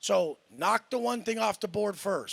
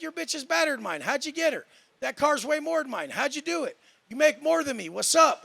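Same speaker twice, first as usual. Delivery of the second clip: humble asker; 6 semitones higher, 3 dB louder than usual. Retold or imitated. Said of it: "Be like".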